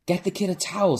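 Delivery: high, loud call; yelled. A narrator's reading. Someone in the club yells teasing the sweaty host, high and loud. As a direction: holler it from the crowd. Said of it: "someone yelled".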